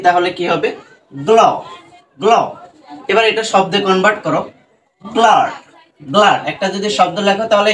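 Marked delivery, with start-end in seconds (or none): 1.3-2.3 গ্ল as one syllable, g running into l; blended consonants. Shown as a demonstration. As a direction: demonstrate গ্ল with no vowel between g and l. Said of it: "এই দুটো যদি আমরা একসাথে লিখি".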